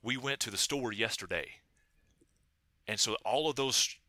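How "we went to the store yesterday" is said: every stressed word rises, sing-songy; rising pitch on stressed syllables. Shown as a demonstration. Linguist demonstrating the Appalachian contour, rising on each stressed syllable. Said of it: "it's gonna sound a little something along the lines like".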